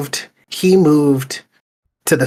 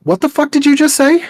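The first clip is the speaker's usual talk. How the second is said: shocked and much higher, disbelieving outburst; incredulous; 12 semitones higher, 4 dB louder than usual. Retold or imitated. To an old friend back with an accent, pitched-up disbelief. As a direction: react like you can't believe your ears. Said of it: "I'm like".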